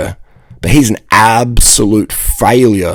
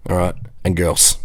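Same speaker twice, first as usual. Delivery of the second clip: ordinary talk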